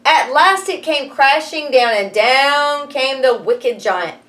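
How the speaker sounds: plain reading voice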